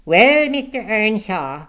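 loud, high, drawn-out address; indignant cry. A narrator's reading. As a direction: open a scolding at full voice. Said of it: "she cried".

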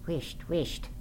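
hushed, softly urgent shushing; reproachful mutter. A narrator's reading. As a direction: shush her under your breath. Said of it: "muttered the young man reproachfully".

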